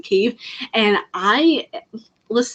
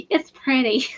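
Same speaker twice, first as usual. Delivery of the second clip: whispered; 5 semitones higher, slower than usual. Real, not acted. Whispered repeat after laugh.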